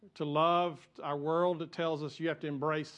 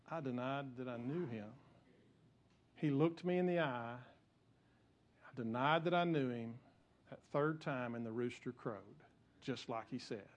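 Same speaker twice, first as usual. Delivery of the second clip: Peter remembering his denial with dread, trailing off; ashamed inner thought; 3 semitones lower, 5 dB quieter than usual. Retold or imitated. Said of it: "he's thinking".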